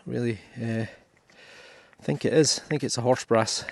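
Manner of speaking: talking through heavy breathing; out of breath, breathing heavily. Real, not acted. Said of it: "Sorry about my heavy breathing".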